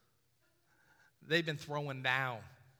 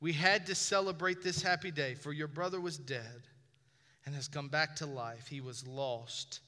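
1 gentle father; 4 semitones lower, 3 dB quieter than usual. Acted. Father's gentle reply, softer lower.

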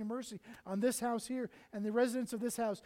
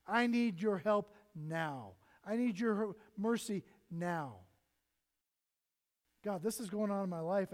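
slow, louder earnest praying; bold prayer; 4 dB louder, slower than usual. Pretend. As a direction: pray out loud with confidence. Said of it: "approach the throne with boldness and say".

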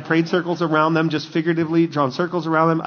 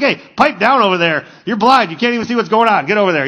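brusque, mildly raised put-down; acted rebuke; 4 semitones higher, 4 dB louder than usual. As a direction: scold someone out of the way. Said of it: "that's kinda like how they treat him".

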